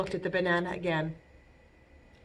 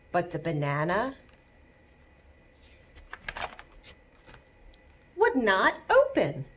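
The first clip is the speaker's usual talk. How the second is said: gentle storytelling read to babies; read-aloud storytime. Acted. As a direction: librarian reading to toddlers. Reading picture book to babies.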